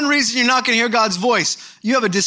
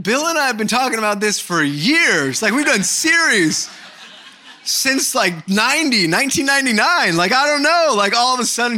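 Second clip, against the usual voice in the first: exasperated protest; 4 semitones higher, 4 dB louder than usual. Retold or imitated. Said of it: "I'm like".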